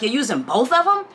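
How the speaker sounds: imitating his incredulous, audacious question. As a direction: mimic his cheeky disbelief, rising at the end. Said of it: "said it with the audacity in his tone".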